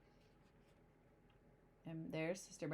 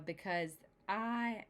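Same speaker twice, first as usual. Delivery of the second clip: bragging dad; 2 semitones higher, slower than usual. Acted. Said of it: "bragged Papa".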